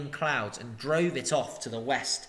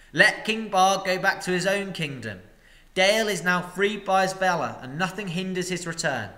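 master's speech; 5 semitones higher, 4 dB louder than usual. Acted. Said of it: "master addresses the crowd".

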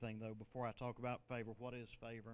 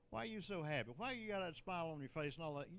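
imitating snarky onlookers, pitched up; higher-pitched mock snark; 3 semitones higher than usual. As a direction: needle them with mock-nosy questions. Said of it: "You know how snarky people can be".

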